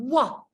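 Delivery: wah sliding out of rounded lips; W glide. Shown as a demonstration. Teacher modelling the W glide for learners, sliding out. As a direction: slide it out. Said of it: "Same thing".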